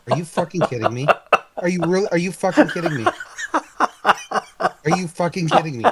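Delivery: exasperated, laughing it off; can't believe the roll, laughing; laughing disbelief. Real, not acted. Player reacts to his own failed roll with laughing disbelief.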